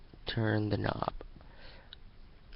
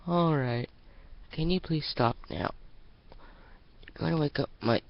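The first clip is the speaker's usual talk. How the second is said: annoyed Sunset; 6 semitones higher than usual. Acted. Sunset at the door telling the knockers to stop, annoyed. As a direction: tell the knockers to quit it.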